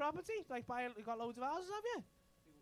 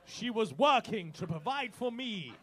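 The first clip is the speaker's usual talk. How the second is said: possessive husband; 6 dB louder, slower than usual. Pretend. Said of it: "Possessive, Tom".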